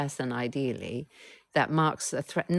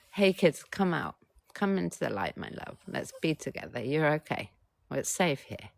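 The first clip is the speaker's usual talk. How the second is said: gentle coaxing call. Acted. Therapist coaxing frightened inner children: tender, reassuring call. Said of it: "I'm saying, and you're agreeing".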